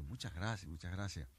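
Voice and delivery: soft thanks. Acted. Jew thanking the Arabs quietly for removing his shoes. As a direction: thank them gently.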